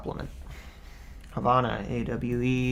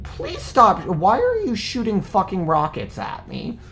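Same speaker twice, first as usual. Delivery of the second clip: panicked plea; 8 semitones higher, 6 dB louder than usual. Real, not acted. Pleading while under fire.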